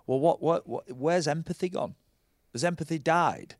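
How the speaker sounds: pleading, worked up; passionate. Real, not acted. Passionate outburst about empathy.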